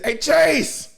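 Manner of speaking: high, loud mock pleading; mock cry for help. Ginyu begging his teammate, high hammed-up cry for help. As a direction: yell for help like a drowning man, hammed up. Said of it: "this nigga said".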